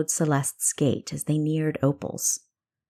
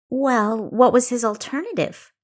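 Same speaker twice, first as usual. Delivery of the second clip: rising, louder and higher, pushing back; 6 semitones higher, 4 dB louder than usual. A narrator's reading. Kessa pressing her sister about Quinn, voice rising. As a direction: let the pitch climb as she argues. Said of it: "her voice rising".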